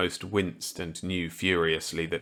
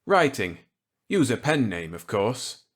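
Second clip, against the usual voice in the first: Millet's voice; 3 semitones higher than usual. Acted. Millet offering Walker a gambit, kindly. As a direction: play the genial old scientist warmly.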